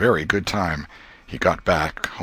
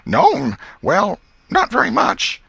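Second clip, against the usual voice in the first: high, louder hasty denial; evasive boy; 6 dB louder, slower than usual. A narrator's reading. Tom dodging his aunt's trap, high and evasive. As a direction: dodge the question quickly. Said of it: "So he said".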